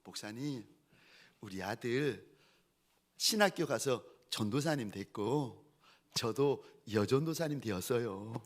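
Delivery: a hint of a humbled mother; subdued phone confession. Mother phoning her pastor years later, subdued. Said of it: "뭐라 그러시는가 하면은".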